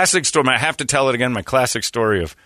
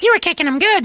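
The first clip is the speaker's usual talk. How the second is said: high mock wife voice; 4 dB louder than usual. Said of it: "Megan goes".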